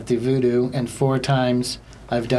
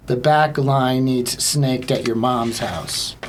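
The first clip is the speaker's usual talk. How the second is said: deliberate quoting; slower than usual. Retold or imitated. Slow repeat of unfortunate phrase.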